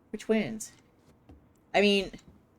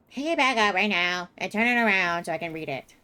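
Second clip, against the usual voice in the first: mock demand; 4 semitones higher, 6 dB louder than usual. Real, not acted. Commanding the game character.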